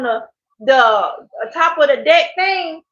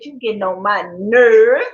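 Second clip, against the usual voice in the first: lightly mimicked grumble, swooping up at the end; a touch of mock exasperation, rising on the last word; playful imitation of an uncle's complaint; imitating uncle's catchphrase; 3 semitones lower than usual. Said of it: "me saying it like that".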